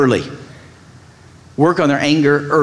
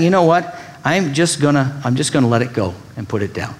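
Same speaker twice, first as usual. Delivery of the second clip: letting it go; 2 semitones lower than usual. Retold or imitated. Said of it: "There's some wisdom in just saying".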